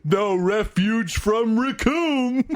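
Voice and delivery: slow, lightly voiced brute; a hint of a proud muscle brute; Recoome voice. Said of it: "Read it in your dumb Recoome voice".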